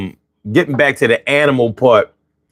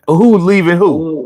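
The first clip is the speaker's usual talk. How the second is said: mock indignant; 6 semitones higher than usual. Child at school drop-off, mock indignant. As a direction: voice a kid outraged at drop-off. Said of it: "It's like".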